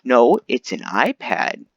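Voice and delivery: slow know-it-all answer; a lightly voiced smug nerd; nerdy know-it-all. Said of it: "blonde nerd is like".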